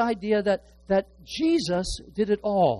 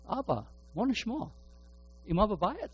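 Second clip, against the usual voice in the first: roommate phoning home; 5 semitones higher, 4 dB quieter, much faster than usual. Retold or imitated. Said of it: "what he would always say when the telephone rang".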